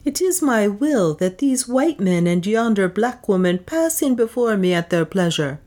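high, commanding anger; angry. A narrator's reading. Juana rebuking the priest for barring her servants, angry. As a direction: rebuke the priest with cold authority. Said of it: "spoke angrily".

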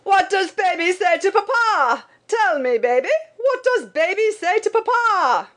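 very high, insistent holler; overbearing papa calling out high; father's mock shout. A narrator's reading. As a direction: coax the baby in a high calling voice. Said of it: "Then he would shout".

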